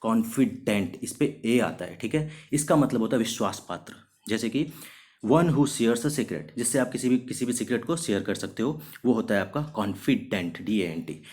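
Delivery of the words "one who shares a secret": slow, clear dictation for learners; slow example sentence. Shown as a demonstration. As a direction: read the sentence very slowly, word by word. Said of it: "definition read for students".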